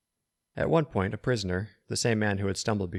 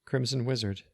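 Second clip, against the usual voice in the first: trembling voice; 4 semitones higher than usual. Acted. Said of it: "his voice trembled".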